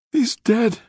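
very high-pitched cry of grief; sobbed. A narrator's reading. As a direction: cry it out in anguish. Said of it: "she sobbed".

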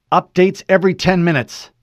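a soldier's throat gone tight; clipped order through a dry throat. Acted. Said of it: "His voice was suddenly tight and dry".

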